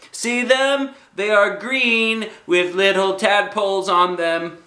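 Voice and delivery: put-on high, bouncy kid voice; little girl Junie B. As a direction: play a bossy six-year-old.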